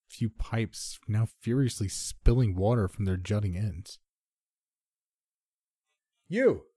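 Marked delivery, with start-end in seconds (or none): 6.3-6.7 sudden high-pitched call; narrated shout. A narrator's reading. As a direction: shout it at someone along the sidewalk. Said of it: "I shouted at a suited businessman".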